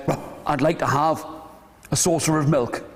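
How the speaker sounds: low, woofing dog voice; low-pitched old dog with a woof. Acted. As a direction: ask in a low doggy voice. Old dog speaks between woofs.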